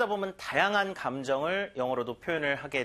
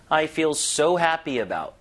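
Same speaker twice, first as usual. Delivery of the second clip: "so" stressed, louder and drawn out; 4 dB louder, much slower than usual. Shown as a demonstration. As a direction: lean on "so", then let it fall away. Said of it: "강세는 이제 어디다 주느냐". ("so"에 강세)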